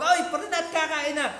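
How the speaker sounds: mock-annoyed call to come eat; gruff Batangueño call. Batangueño calling a buddy to dinner, gruff mock call. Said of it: "may galit pag nagtatawag".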